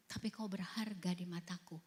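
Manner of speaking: soft unvoiced whisper, tender; hushed, reassuring whisper; gentle whisper. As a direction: whisper it like a comforting voice. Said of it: "Roh Kudus ingetinnya gini".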